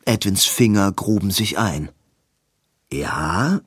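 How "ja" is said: low questioning Edwin. Acted. Edwin asks quietly.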